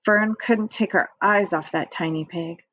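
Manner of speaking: ordinary delivery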